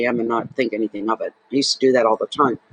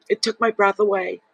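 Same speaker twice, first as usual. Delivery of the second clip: moved; 5 semitones higher than usual. Real, not acted. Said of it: "I'm getting emotional".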